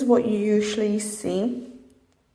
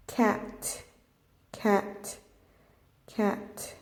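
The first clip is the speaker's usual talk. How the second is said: whispered; 7 dB quieter, much slower than usual. Shown as a demonstration. Vocab drill, cat whispered.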